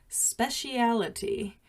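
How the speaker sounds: speciality said with five syllables, spe-shee-a-li-ty; speciality, not specialty; pronounced speciality. Shown as a demonstration. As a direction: say speciality, British style. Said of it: "what Nation says is".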